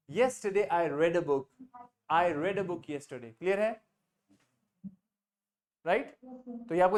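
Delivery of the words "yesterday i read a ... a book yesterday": slow, word by word: Yesterday I read a book; slow dictation. Shown as a demonstration. Teacher dictating the answer slowly to students. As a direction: spell out the answer slowly for the class. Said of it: "तो हमारा क्या answer हो जाएगा?".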